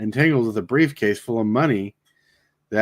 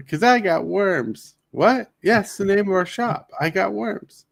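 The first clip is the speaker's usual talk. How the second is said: movie quote; 8 semitones higher than usual. Retold or imitated. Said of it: "little quotes from the movie".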